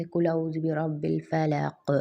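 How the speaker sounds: slow Quranic recitation with qalqala on the final qaf. Shown as a demonstration. Teacher demonstrating qalqala to students, slow recitation. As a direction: recite slowly, bouncing the final ق of الفلق. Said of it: "جیسے".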